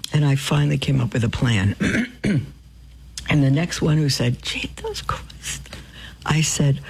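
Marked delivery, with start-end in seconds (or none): 4.4-5.7 breathy mock oath. Imitating coworker's exclamation.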